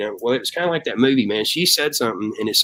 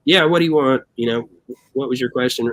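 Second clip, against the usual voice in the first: impatient boss; 2 semitones higher than usual. Retold or imitated. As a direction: brush her off like a busy CEO. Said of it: "looked at her and goes".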